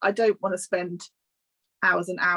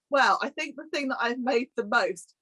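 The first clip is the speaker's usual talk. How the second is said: hair in mouth; 4 semitones higher than usual. Real, not acted. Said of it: "I've got a hair in my mouth".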